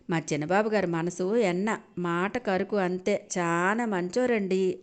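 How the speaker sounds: slow, coy, coquettish praise; coyly. Acted. Maid praising the young master to his mother, coyly. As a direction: drawl it out playfully. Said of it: "కులుక్కుందు చెప్పింది గంగ".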